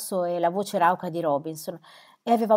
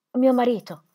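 higher, louder cry of grief; anguished cry; 6 semitones higher, 6 dB louder than usual. A narrator's reading. Widow crying out for her dead husband, anguished. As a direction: break on the words.

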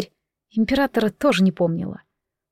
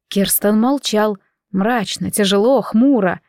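usual speaking voice

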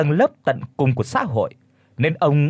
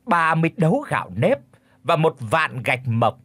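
pompous verdict; 2 semitones higher than usual. Acted. Chief pronounces the fine to the family, pompous. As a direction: lay down the fine with authority.

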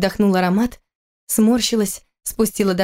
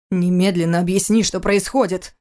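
firm demand. Acted. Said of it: "потребовал он окрепшим голосом".

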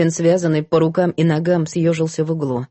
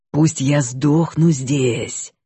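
slow, hissing snake-like whisper; slow hypnotic serpent hiss; 4 semitones lower, much slower than usual. Acted. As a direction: hiss it into her ear like a serpent. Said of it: "просвистел ей на ухо змеиный голос". (медленное змеиное шипение)

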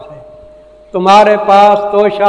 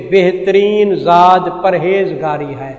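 mimicking common clerics; slower than usual. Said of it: "عام مولوی معنی کیا کرتے ہیں".

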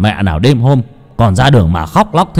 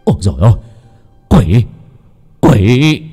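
terrified cry; 3 dB louder than usual. Acted. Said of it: "thì ông sợ hãi".

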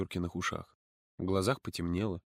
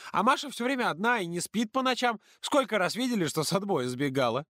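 put-on higher earnest girl's voice; earnest and worried, much higher; serious girl; 9 semitones higher than usual. A narrator's reading. Polina girl voice. (Полина серьёзно объясняет подруге)

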